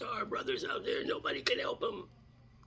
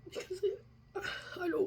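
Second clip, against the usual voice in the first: laughing through tears; 10 semitones higher than usual. Real, not acted. Laugh-cry mid sentence.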